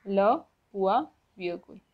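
"Le point virgule" repeated word by word; stressed "Le", separate "point", falling "virgule"; French pronunciation demo. Shown as a demonstration. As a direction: model "Le point virgule" with small breaks. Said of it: "Semicolon is pronounced as".

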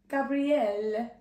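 slow, stretched Italian accent. Shown as a demonstration. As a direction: savour the name in an Italian accent. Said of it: "In an Italian accent, yes, it works".

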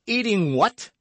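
high, loud startled outburst; shocked question. A narrator's reading. D'Artagnan hearing it is horse, shocked. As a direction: exclaim in astonished disbelief.

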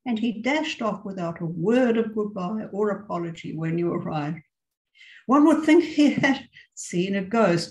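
expressive read-aloud with voiced dialogue; story reading. A narrator's reading. Teacher reading a short story to her English class, expressive narration. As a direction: tell the tale to the class, lively and clear.

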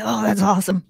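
echoing a friend's Keanu bit, lightly put on; a light, playful copy of that easygoing reply; Keanu Reeves voice. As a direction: interviewer repeats the guest's Keanu line. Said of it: "good impression of him".

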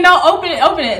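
mild mock yell; retold screaming. Boyfriend urging her to keep opening, mock screaming. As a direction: imitate his insistent shouting, lightly. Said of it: "screaming again".

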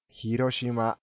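"広島" with H sounded, no stressed syllable; Japanese pronunciation. Shown as a demonstration. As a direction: say "広島" as in Japanese, evenly. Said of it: "それは日本語の発音ですね". (「広島」を日本語の抑揚で)

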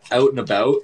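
out and about with a Canadian accent; Canadian accent demo. Shown as a demonstration. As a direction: show off those Canadian vowels. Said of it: "you gotta give me something".

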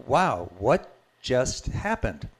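slow, wondering wow; stunned inner voice, drawn out slowly; slow amazement. Retold or imitated. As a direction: let the amazement slow you down. Amazed inner thought after healing.

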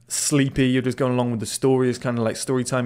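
ordinary delivery

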